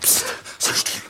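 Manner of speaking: slow whispered shush; silencing a frightened woman before the patrol hears; urgent hush. Acted. Intruder hushes servant.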